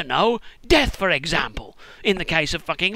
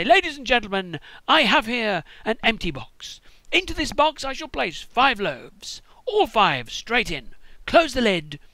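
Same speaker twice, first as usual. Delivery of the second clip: slow showman patter, a touch higher; stage magician; 4 semitones higher, slower than usual. Pretend. Jesus as a stage magician to the crowd, showman patter. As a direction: present it like a cheesy conjuror. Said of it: "open a big box and say".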